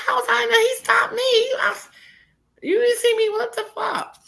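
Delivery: high, loud indignant yell; shrill-pitched mock outrage; retold angry yell. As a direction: fire it back at him, outraged. Retelling her heated reply to Tony.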